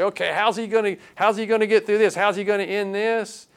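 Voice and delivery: mildly wondering aloud, as if holding out for the answer; bated breath. Acted. Listeners wonder how the parable will end, mild bated breath. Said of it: "sitting there with bated breath".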